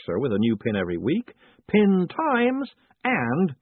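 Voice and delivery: loud salesman's patter with high-pitched titles; pin-shop man. Acted. Pin seller running through his stock for a customer, loud and keen. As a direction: punch each magazine title up high.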